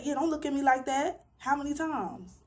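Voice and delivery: mocking his casual tone. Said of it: "he said".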